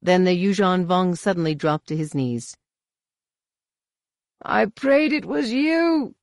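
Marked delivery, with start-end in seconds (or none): 4.4-6.1 high, slow, awed declaration; drawn-out, raised fervent voice; fervent reverence. A narrator's reading. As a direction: confess it like an answered prayer. Kneeling warrior reveres the Jedi.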